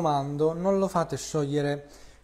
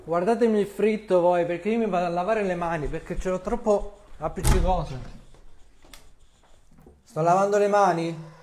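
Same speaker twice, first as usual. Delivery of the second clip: calling out; 2 semitones higher, 6 dB louder than usual. Real, not acted. Calls out while going to wash hands.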